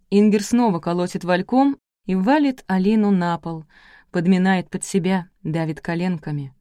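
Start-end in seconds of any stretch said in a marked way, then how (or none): none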